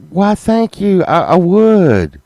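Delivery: high, prim mock-polite thanks from the wife; mimicking wife. Imitating Sunshine gladly accepting the pillow, high and prim. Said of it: "She's like".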